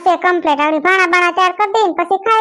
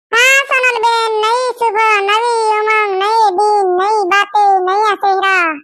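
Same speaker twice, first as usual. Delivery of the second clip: high, slow dramatic movie-line delivery; filmi dialogue; 3 semitones higher, slower than usual. Acted. Kayadi spouting filmy lines to Sonalben, dramatic. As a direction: recite it like a Hindi film heroine. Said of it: "dialog બાયલોગ નો કરતી".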